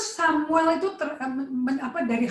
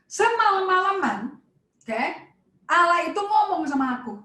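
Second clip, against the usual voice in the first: Samuel's voice; 5 semitones higher than usual. Acted. Samuel voiced recounting night with God.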